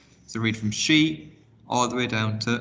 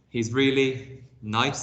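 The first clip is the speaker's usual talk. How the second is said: forced politeness; 3 semitones higher, much slower than usual. Acted. Zoe lying about the rat.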